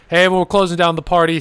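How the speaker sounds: normal talking voice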